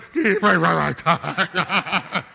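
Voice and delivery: garbled blubbering sobs; hammed-up crying babble; mock bawling. Dad trying to pray for son, mock bawling. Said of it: "I'm bawling".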